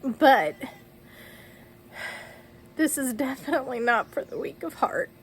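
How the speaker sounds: real tears in the voice, halting between phrases; tearful. Real, not acted. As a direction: talk on through crying, pausing to regain control. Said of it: "folks, I don't normally cry".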